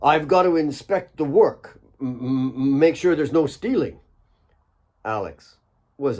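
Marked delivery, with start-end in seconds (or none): 0.0-4.0 stuttering. Acted. One Eye stammering an excuse to his boss Alex, nervous stutter. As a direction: trip over the m's like a caught liar. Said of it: "One Eye stuttered".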